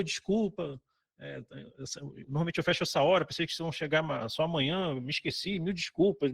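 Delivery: put-on soft, apologetic old host; kind apology. Inn owner apologizing to late guests, soft and kind. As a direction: gently say sorry for forgetting them. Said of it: "a entonação que ele usava".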